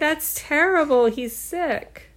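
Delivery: high, mock-concerned; worried Lena. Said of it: "she says".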